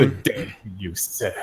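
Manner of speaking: put-on lightly done posh British accent; a half-whispered, genteel British greeting; mock British accent. Joking about British YouTubers, a light mock British accent. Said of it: "you would have done it with a British accent".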